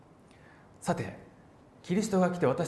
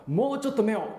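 a playful begging voice, slowing down at the end; pleading to God; 6 semitones higher than usual. Pretend. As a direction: beg God sweetly for double eyelids. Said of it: "とないんです".

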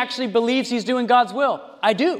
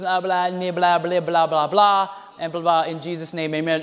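mock preacher babble; 4 semitones lower than usual. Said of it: "the preacher comes out and just goes".

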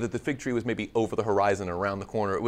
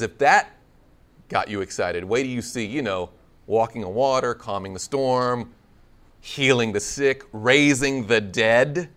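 Jesus promising more; 2 semitones lower, 5 dB louder than usual. Retold or imitated. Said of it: "And he says".

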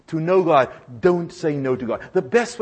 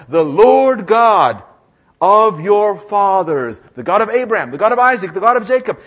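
proclaiming scripture; 2 semitones higher, 7 dB louder than usual. Acted. Preacher reading God's words to Moses, loud and stately. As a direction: proclaim each name with weight.

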